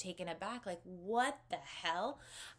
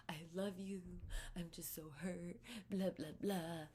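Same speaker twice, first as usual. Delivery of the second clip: whispered mock plea, drawn out; 7 dB quieter, slower than usual. Mimicking the drunk boyfriend begging forgiveness, whispered mock plea. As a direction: breathe his apology back in a whisper.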